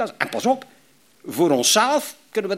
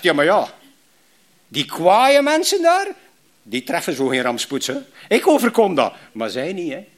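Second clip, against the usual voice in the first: Job's bitter complaint; 4 dB louder than usual. Retold or imitated. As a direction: voice Job grumbling at the wicked. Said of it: "Job zegt". (bitter klagende Job)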